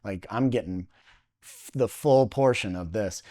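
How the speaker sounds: low, softened inner monologue; quietly resolve it under your breath; thinking to himself. Retold or imitated. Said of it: "I just think to myself".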